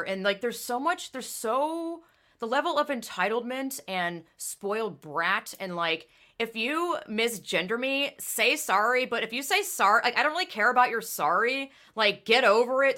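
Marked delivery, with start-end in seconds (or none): 6.4-13.0 mocking entitled kid.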